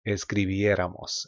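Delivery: escribiéramos stressed on BIE, es-cri-BIE-ra-mos; stress on accented E. Shown as a demonstration. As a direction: model escribiéramos with weight on the accented é. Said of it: "Make sure you stress there".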